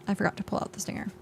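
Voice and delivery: fast, breathy whisper; quick whisper. Shown as a demonstration. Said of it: "That sounds like a medical problem".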